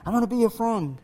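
soft echo coming back; cave echo. Acted. Cave returning the boy's kindness, soft echo. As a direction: repeat it as a faint echo. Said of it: "what do you hear back".

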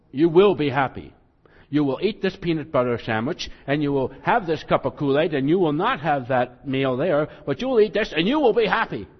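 loud, stern orders like a strict parent; bossy command. Pretend. Preacher mimicking a bossy parent ordering happiness, stern and loud.

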